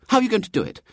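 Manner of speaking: high-pitched, challenging question; aggressive. A narrator's reading. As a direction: demand it of him, pitched high. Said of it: "said Marian aggressively".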